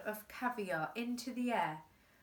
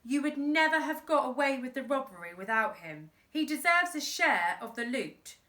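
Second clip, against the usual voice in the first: put-on defiant boy; 4 semitones higher, 5 dB louder than usual. Boy speaks up to boss.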